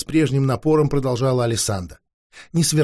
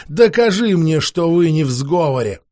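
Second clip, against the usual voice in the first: whip-crack command. Acted. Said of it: "хлестнула словно кнут".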